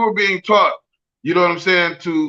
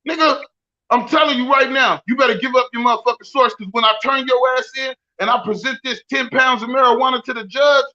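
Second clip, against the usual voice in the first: a lightly voiced bullying cop, higher; hint of a shakedown cop; mock corrupt cop; 5 semitones higher than usual. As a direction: lean on him like a crooked cop. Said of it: "that's the good cop in me".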